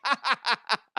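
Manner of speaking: high mocking laughter; son laughing at him. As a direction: cackle at dad's pain. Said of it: "he's like".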